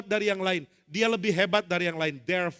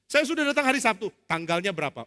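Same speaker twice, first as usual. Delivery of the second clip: complaining; 4 semitones higher, 4 dB louder than usual. Acted. Complaining group member.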